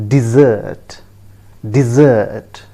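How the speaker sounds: "dessert" said dih-ZURT, stress at the end; correct dessert. Shown as a demonstration. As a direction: stress the second syllable of "dessert". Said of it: "the correct pronunciation is".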